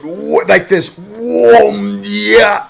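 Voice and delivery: strained throaty whoa sound. Shown as a demonstration. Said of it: "I can't even do it".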